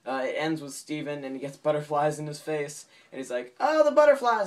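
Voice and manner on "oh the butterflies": loud, high cartoon cry of alarm; imitated boy panicking; mock panic. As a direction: cry out in hammed-up terror. Acted panic at butterflies.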